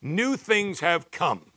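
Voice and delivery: each word slowly and deliberately; slow emphatic quote. Shown as a demonstration. Pastor reading the verse to his church, slow and deliberate. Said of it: "I love the N A S B where it says".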